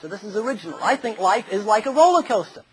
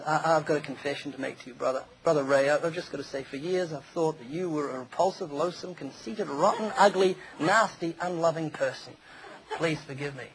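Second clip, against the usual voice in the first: soft, lower, sheepishly earnest confession; mock earnest confession; 4 semitones lower, 7 dB quieter than usual. A man confessing resentment to Brother Ray, quiet and sheepish. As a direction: hush it like an awkward apology.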